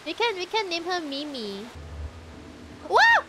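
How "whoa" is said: surprised whoa. Real, not acted. Surprise at game event.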